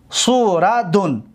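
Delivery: سوردون drawn out as su, ra, dun; syllable by syllable. Shown as a demonstration. Teacher showing students the ninth pattern, سوردون slowly syllable by syllable. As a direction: sound out سوردون slowly, each syllable apart.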